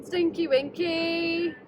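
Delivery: drawn-out character name call; slow sing-song announcer. Acted. Parody show intro names.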